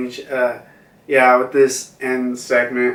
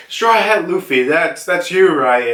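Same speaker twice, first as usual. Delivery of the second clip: lightly higher, excited voice; eager Yamato; 4 semitones higher than usual. Retold or imitated. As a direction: greet Luffy with eager recognition. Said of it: "he's like".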